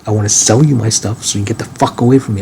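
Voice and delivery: fed up, pushing them away; emotional outburst. Real, not acted. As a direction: let the frustration spill out. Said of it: "that was a little emotional".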